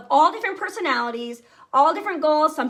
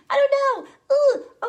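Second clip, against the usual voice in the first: much higher, louder panicky squeak; mock terrified; 13 semitones higher, 5 dB louder, slower than usual. Leader to her team, reliving her fear of speaking, high panicky squeak. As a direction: squeal out the nerves. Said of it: "I'm, like, terrified".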